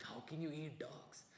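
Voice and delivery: soft, slow mock outrage at eating dogs. Comic mocking the outraged public, mock disbelief. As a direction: sneer it like the outraged crowd.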